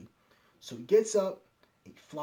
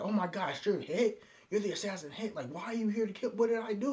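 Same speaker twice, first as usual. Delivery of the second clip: higher-pitched mock worry; retold worried questioning, pitched up; concerned; 6 semitones higher than usual. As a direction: lightly act out an alarmed target. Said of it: "he's concerned".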